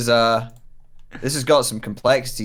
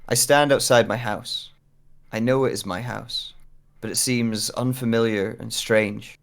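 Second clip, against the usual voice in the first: story narration. Acted. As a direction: read it as an unsettling tale.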